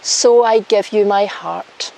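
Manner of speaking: slow, solemn vow reading; officiant vows. Shown as a demonstration. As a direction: lead the vow line by line. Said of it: "repeat after me".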